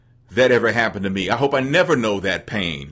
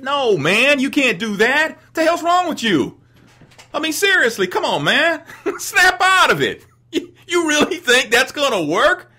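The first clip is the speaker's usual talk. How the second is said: laughing scold; 13 semitones higher than usual. Real, not acted. Scolding uninvited women, laughing.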